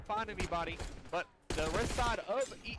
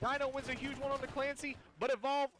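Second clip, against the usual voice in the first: excited; 5 semitones higher than usual. Real, not acted. Caster calls the deciding final fight.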